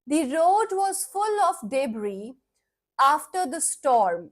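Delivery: slow, deliberate example sentence; slow reading. Shown as a demonstration. Teacher reads the example sentence slowly to students. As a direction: read it out slowly for the class.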